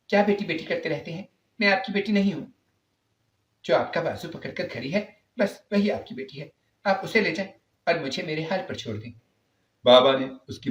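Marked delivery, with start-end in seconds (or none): 0.1-9.1 put-on higher, snapping teen; rude daughter. Laiba to her father, higher resentful retort. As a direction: throw his love back at him. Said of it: "لیکن اس نے کہا".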